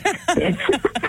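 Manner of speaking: naughty rising cackle; witchy cackle. Real, not acted. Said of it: "Cackle like a witch".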